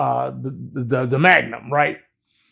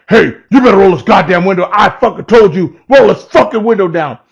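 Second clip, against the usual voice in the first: angry cop; 3 semitones higher, 5 dB louder than usual. Retold or imitated. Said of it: "he's getting mad at me".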